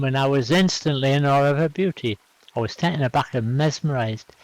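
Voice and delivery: lilting poem reading with varied pitch; poem recital. Acted. Host shares a love poem at open mic, recited. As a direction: recite it line by line, rising and falling. Reads own poem aloud.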